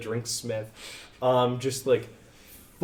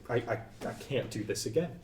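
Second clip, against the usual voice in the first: broken plea; 6 dB quieter, faster than usual. Acted.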